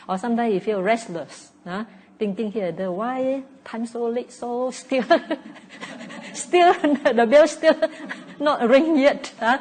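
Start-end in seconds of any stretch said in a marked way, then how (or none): 2.7-9.5 high, much louder, giggling through the words; laughing impatience. Retold or imitated. Teacher mimics a restless meditator waiting for the bell, laughing. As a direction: laugh out the fidgety thought of waiting.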